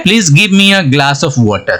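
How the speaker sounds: very slow, careful dictation; teacher dictating an English example sentence. Shown as a demonstration. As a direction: read it word by word for learners. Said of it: "क्या है".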